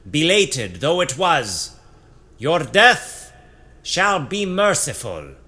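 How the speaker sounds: high, loud solemn sentencing. A narrator's reading. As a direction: pronounce the verdict, loud and high. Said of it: "Zephanon raises his voice".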